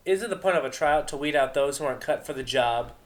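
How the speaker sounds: needling Vinyl. Acted.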